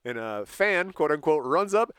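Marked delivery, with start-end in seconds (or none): 1.4-1.9 loud, high, building to BOOM; slow it down and belt out the blow; shouted punch story. Retold or imitated. Telling how a fan punched Mick, loud excited shout.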